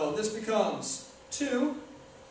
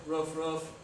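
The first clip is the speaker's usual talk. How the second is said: soft, low mock ruff-ruff; a half-hearted little bark, lower and quieter; dog barks; 3 semitones lower, 4 dB quieter than usual. Deadpan dog impression for the viewers, soft low barks. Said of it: "three ball impression of a dog".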